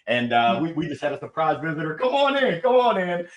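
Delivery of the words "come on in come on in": pet talk. Real, not acted. Greeting the dog on camera.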